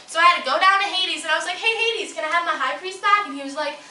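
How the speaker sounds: put-on lively, exasperated teen-style goddess with big pitch swings; petulant young goddess. Goddess venting about her crush on Apollo, petulant. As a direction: play a whiny, put-upon young immortal. Performs comic monologue as goddess.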